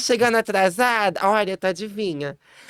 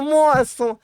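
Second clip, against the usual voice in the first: "moço" agudo, caindo no fim; chamado agudo; 5 semitones higher than usual. Retold or imitated. ("moço" agudo e caindo)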